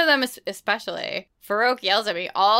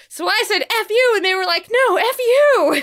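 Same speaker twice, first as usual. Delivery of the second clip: cheeky cat; 11 semitones higher, 5 dB louder than usual. Pretend. Cat telling his friend about the human, high and cheeky. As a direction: squeak it out like a cartoon cat gossiping. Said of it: "he's like".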